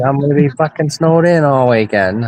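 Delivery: retold Mainer grumble; Maine accent. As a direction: complain like a Mainer. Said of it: "That's my main accent".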